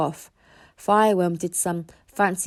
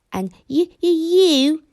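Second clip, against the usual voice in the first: calm stuttering dragon; 8 semitones higher, 7 dB louder than usual. Acted. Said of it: "said Toothless calmly".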